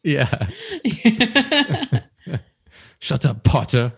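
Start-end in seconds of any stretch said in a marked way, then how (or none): 3.0-3.9 Malfoy voice. Pretend. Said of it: "Did Malfoy talk about horses".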